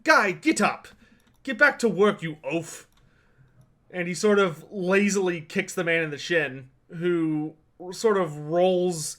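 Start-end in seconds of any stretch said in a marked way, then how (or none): 0.0-2.9 scolding a fallen servant, mildly; lightly voiced impatient master; mildly annoyed order. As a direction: order the clumsy attendant up with some irritation. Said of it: "he frowns down at the attendant who fell".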